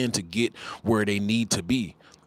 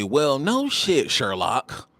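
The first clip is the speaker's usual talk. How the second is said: sarcastic; 3 semitones higher, much slower than usual. Real, not acted. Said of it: "sarcastic retort".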